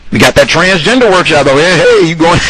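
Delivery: high, fast, chirpy pitch of a workshop; mock organizer. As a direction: cheerfully push the transgender workshop.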